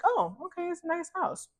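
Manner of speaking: mildly impressed; grudging approval. Retold or imitated. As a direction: concede it half-heartedly.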